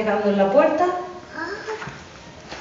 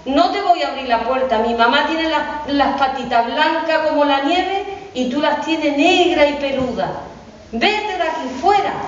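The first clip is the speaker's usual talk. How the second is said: put-on little goat kid; 5 semitones higher than usual. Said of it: "le dijo a los cabritos".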